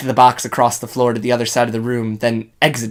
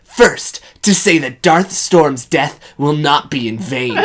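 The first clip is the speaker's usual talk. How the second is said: hero voice. Acted.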